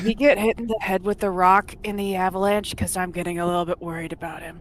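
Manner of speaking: hushed, whispered voice. Leaning over to Otto during the game, whispering. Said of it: "I'm I'm whispering this".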